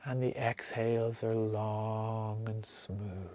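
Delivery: slow, breathy whisper. Acted. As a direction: whisper it slowly, like a long exhale. Breath cue during meditation.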